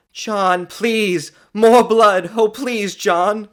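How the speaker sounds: high, loud, urgent begging; heavy-breathed pleading. A narrator's reading. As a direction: beg him desperately. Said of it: "she breathed heavily".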